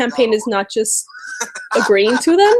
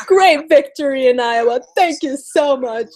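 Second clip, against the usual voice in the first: mock victory speech; 4 semitones higher than usual. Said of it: "they're gonna be like".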